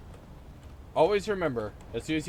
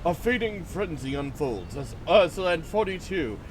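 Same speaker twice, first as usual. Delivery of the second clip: nature documentary. Pretend. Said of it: "Let's observe chat in its natural habitat".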